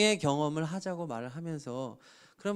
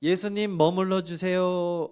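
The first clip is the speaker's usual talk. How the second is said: fervent loud plea; 6 dB louder, slower than usual. Acted. Preacher repeating the plea.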